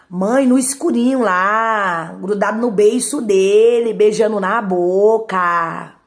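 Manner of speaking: drawn-out, loud gossip, savoring every word; scandalized tattling. Retold or imitated. Sister loudly tattling to mother about the kiss.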